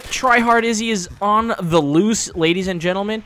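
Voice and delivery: playful hype-man commentary; mock announcer. Mock commentary on own game.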